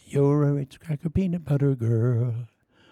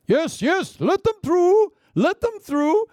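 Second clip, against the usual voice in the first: much higher, louder excited call; eager court official; 4 dB louder, slower than usual. Acted. Courtier calling to let the cracker girl through, high excited. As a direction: wave the crowd aside eagerly.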